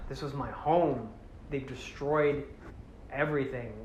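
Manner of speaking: quiet, halting grief, lightly acted; mock mourning. Toa mourning the destroyed home, subdued. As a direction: voice a crestfallen hero softly.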